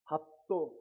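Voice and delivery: two-syllable Gyeongsang demand; demonstrating blunt Gyeongsang speech; Gyeongsang dialect. Shown as a demonstration. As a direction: say it tersely, Gyeongsang style. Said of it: "경상도 말로".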